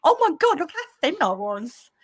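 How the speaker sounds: high, delighted shriek of surprise; amazed exclamation. Real, not acted. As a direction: exclaim in real amazement, voice leaping up. Amazed at own old poster.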